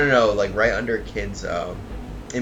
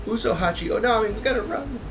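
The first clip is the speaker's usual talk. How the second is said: mock yelling; 14 semitones higher, 5 dB louder than usual. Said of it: "we see Usopp yelling".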